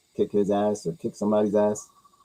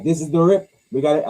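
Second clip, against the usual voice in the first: attempted Boston accent, slightly louder; 3 semitones higher, 4 dB louder than usual. Movie crook talking to his crew, attempted Boston accent. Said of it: "have to talk in those accents".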